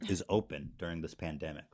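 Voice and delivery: talking around ice cubes; ice in mouth. Real, not acted. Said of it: "'Cause I have ice in my mouth?".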